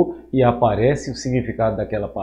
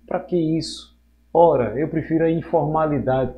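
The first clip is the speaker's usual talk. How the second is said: dismissive colleague; 4 semitones higher than usual. Retold or imitated. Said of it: "eles dizem".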